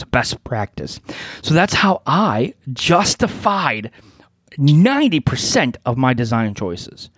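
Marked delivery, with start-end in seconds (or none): 0.0-1.0 sceptical air-quoted best practice; mocking the phrase best practice; air quotes. Real, not acted. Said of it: "air quotes".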